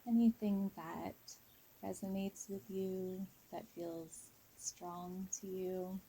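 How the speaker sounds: guided meditation. Real, not acted. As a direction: ease listeners into a calm visualization, unhurried. Leads a guided visualization.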